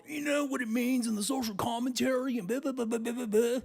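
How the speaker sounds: high, nasal-free mock lecturing voice; mock the smug know-it-all; nerdy know-it-all voice. Mocking neckbeards explaining commentary.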